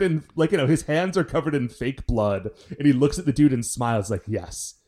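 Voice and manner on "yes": slow, sinister and deliberate; creepy voice. Retold or imitated. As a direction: say it slowly like a menacing villain. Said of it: "it's very disconcerting".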